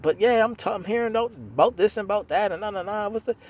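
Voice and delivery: high, strained and upset; upset boyfriend on the phone, high-pitched; emotional, upset. Retold or imitated. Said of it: "And I'm like".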